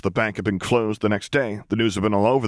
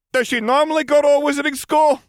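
put-on high, louder timid young man; naive young vampire; 6 dB louder than usual. Young vampire asking his boss, high and hesitant. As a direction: lift the voice high for the nervous newcomer.

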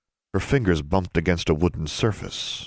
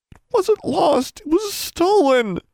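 high, slow, louder whine; whining girl; 6 dB louder, slower than usual. A narrator's reading. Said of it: "Darla whined".

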